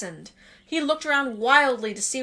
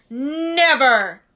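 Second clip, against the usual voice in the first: a loud, defiant cry; defiant shout; 7 dB louder than usual. Acted. Harry refusing to hand over the stone, loud and defiant. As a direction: spit it back at him.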